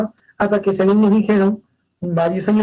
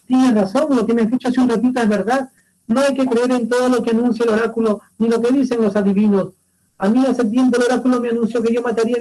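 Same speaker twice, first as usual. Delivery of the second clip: relieved Oedipus; 2 semitones higher than usual. Acted. Oedipus tells his wife the oracle was wrong, lightly voiced and quick. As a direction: brush off the prophecy with quick relief. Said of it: "Edipo le dice a su esposa".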